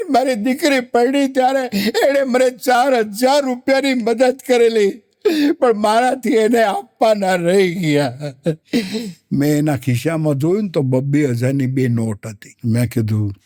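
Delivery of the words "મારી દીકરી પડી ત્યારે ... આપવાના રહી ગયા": higher, whiny voice of the mourner; mock sad mourner. Comedian voicing the mourner to the crowd, higher whine. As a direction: play the grieving man, pitched up. Man at funeral speaks, quoted.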